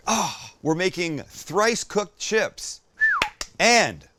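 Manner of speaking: put-on loud, high English accent; mock English accent, meant to be Irish; a quick put-on English accent on curry sauce; English accent attempt. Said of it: "No, that was more English".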